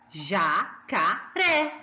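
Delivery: jacaré very slow, syllable by syllable, RÉ strongest; drawn-out ja, ca, then a strong open RÉ; stress on final syllable. Shown as a demonstration. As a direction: spell out jacaré in beats, raising RÉ. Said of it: "Sai bem alto o ré".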